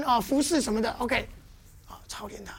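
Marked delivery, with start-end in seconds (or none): 1.9-2.5 whispered emphasis on 操练; whispered keyword. Shown as a demonstration. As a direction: drop to a whisper on the word. Teacher whispers key word.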